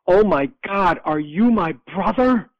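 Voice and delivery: retold scream, high and loud, last words drawn out; mock scream. Sister hears from her long-lost brother, imitated high, loud scream. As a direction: imitate a shocked scream without going all out. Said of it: "she screamed into the phone".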